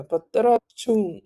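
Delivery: "patarachung" sounded out for learners; demonstrated pronunciation. Shown as a demonstration. Teacher repeating how "to work" is pronounced, careful demonstration. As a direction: model "patarachung" with its tones. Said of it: "would just be pronounced".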